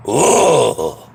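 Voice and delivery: loud groan. Real, not acted. Outburst while recounting the bullhorn.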